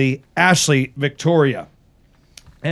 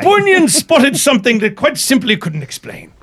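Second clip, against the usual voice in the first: bad Irish accent, higher, laughing through it; terrible Irish accent; 7 semitones higher than usual. Host reads a ghost story in a bad Irish accent. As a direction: read the article in a hammed-up Irish lilt. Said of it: "That's a terrible Irish accent".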